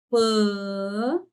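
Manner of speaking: PAN held long on the nasal vowel; drawn-out syllable. Shown as a demonstration. Teacher sounding out the next syllable, long and sustained. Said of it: "Tá assim".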